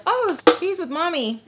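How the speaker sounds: a hint of a high kid voice; kids' voice. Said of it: "The kids are like".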